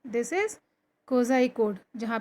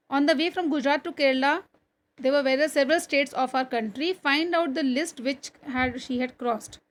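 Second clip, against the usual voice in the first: slow, deliberate classroom reading; textbook read-aloud; much slower than usual. Acted. Teacher reading a train journey story to pupils, slow read-aloud. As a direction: read it out slowly, phrase by phrase.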